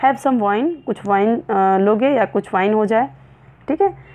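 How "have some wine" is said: encouraging. Shown as a demonstration. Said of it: "said in encouraging tone".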